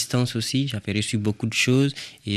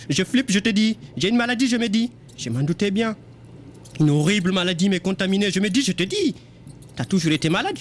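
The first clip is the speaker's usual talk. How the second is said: much higher, agitated inner voice; frantic addicted mouse; 9 semitones higher than usual. Acted. The boozing mouse fights her craving, high frantic voice. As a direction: spiral into panic as the craving hits.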